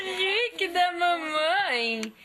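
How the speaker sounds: high, slow squeaky praise; sing-song squeal of delight; squeaky praising a dog. Acted. Mother calls baby squeaky.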